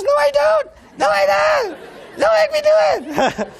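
put-on very high-pitched squealing child's protest; mock a kid's squeaky, frantic refusal; panicking child. Shy child refusing to greet him.

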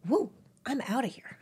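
whispered pet bolting away; startled pet. Pretend. Pets fleeing an angry owner, a whispered pet voice. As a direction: voice the pet fleeing in a hushed aside. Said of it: "And they're like".

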